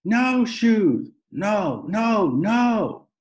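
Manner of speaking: high, loud screamed refusal; screaming toddler. A narrator's reading. Little brother kicking at the salesman, screaming no. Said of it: "He screamed".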